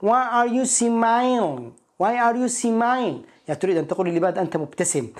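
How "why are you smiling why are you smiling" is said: put-on drawn-out, higher East Asian accent, "smiling" slurred to "si-mai"; imitated East Asian accent. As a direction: mimic an East Asian learner, very slow and higher-pitched. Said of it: "شفت مقطع في فيديو، واحدة بتسأل واحد". (تقليد لكنة شرق آسيوية بنطق ممطوط)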